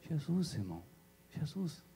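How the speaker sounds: very soft, almost breathed; hushed reverence. Acted. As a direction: drop to a reverent hush. Soft climax naming Jesus. (sussurro reverente)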